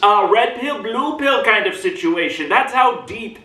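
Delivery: put-on review it like an old newsreel nerd; film reel nerd. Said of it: "for the rest of this recording".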